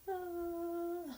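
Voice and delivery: soft high sigh of relief; relieved sigh. Retold or imitated. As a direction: let it all go with an ah. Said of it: "my whole nervous system has just gone".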